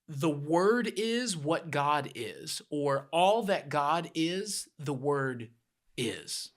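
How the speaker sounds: slow, weighty paraphrase; slow emphatic gloss. Shown as a demonstration. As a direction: linger on "The word is what God is". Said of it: "It's more like saying".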